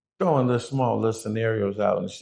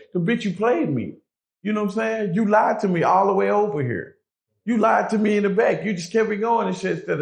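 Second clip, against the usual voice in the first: angry; 7 semitones higher than usual. Real, not acted. Angry rant at the liar.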